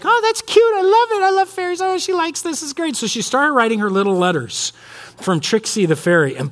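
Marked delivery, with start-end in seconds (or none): 0.0-3.0 high gushing woman's voice; much higher, sweet imitation of a church friend; gushing lady friend. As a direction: coo over it like a delighted friend. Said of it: "She's like".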